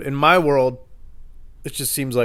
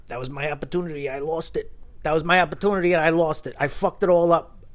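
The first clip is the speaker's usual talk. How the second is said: higher-pitched mock lament; imitating near tears; 5 semitones higher than usual. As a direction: act out a drunk man close to crying. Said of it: "he almost started crying".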